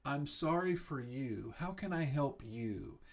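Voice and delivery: quiet caring reply to a partner's work trouble; gentle sympathy. Shown as a demonstration. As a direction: soothe your upset wife gently. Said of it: "The point here is to say".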